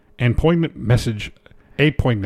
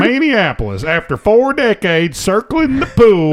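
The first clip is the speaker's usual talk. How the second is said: co-host impression; 5 semitones higher than usual. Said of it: "stop talking like me now".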